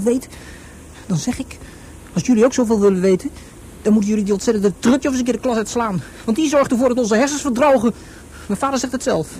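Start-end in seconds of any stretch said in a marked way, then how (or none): 2.1-7.9 louder, declaiming to the class; rally the class like a leader; loud mock revolutionary address; rousing speech. Boy daydreams a rousing class speech.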